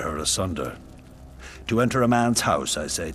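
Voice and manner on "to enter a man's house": loud, raised indictment; angry accusation. Acted. King accuses Trojans of taking Helen, angry accusation. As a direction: hurl the charge, high and forceful.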